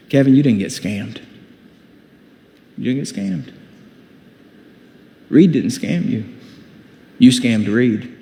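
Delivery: gentle voice of God. Retold or imitated. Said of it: "what God said to me was".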